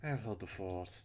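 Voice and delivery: Missus Burns. Acted. Missus Burns sending someone to find him, in a British accent. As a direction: give the orders in a British accent. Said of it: "giving her a British accent".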